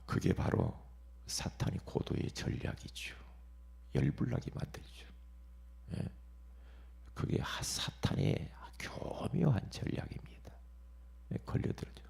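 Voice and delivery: hushed warning. Real, not acted. Preacher warning the congregation about Satan's strategy, hushed. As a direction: lean in and confide it.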